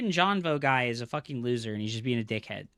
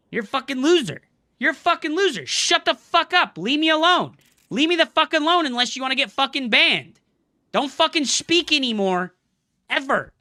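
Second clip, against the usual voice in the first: higher and louder, hammering insults; angry yelling; 7 semitones higher, 5 dB louder than usual. Real, not acted. Streamer telling a troll to shut up, angry yelling. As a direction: shout him down for good.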